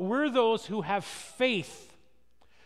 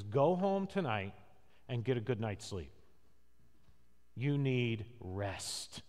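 low, soft, imitating a kindly professor; hushed, lower-pitched quoted advice; gentle advice; 11 semitones lower, 7 dB quieter than usual. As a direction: quietly hand down a professor's counsel, slowing at the end. Quoting professor's gentle advice to students.

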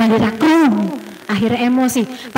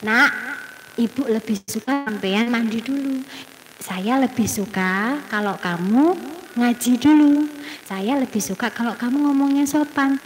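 gentle I-message; 2 semitones lower, 3 dB quieter than usual. Shown as a demonstration. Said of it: "Diganti saya".

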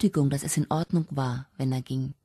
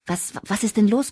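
breathless; 6 semitones higher than usual. Acted. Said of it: "keuchte Sharon atemlos".

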